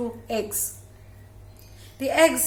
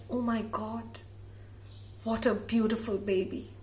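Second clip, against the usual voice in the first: in wonder; 6 dB quieter than usual. Acted. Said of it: "looks at wonder".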